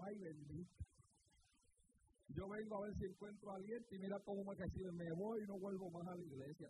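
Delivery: low, weary Puerto Rican lament; Puerto Rican accent. Retold or imitated. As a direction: sigh it out like a tired Puerto Rican brother. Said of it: "Ese es puertorriqueño". (lamento cansado con acento puertorriqueño, grave)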